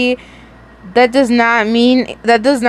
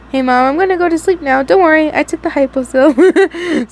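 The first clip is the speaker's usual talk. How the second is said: fake innocent; 6 semitones higher than usual. Pretends lying to mom.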